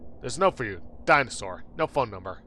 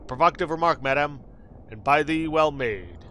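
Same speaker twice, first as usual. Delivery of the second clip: mild antique formality; archaic formal speech. Acted. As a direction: answer like a gracious old noble. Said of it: "When did you start talking like this?".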